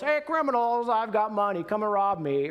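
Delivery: high, sing-out mock holler; calling out. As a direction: call across the mountains as bait, hammed-up. Old John calls out in mountains.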